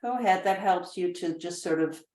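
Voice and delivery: unhurried, spacious meditation voice; measured relaxation instructions, leaving room to breathe; guided meditation. Shown as a demonstration. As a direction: guide them into calm with long pauses.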